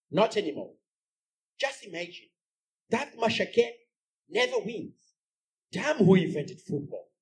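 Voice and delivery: lightly voiced complaining wife; mild grumbling. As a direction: grumble about supper and football. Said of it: "Then she says".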